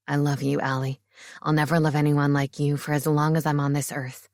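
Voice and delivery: a proud, grinning groom-to-be; Marcus, playful fiancé. A narrator's reading. Marcus declares love.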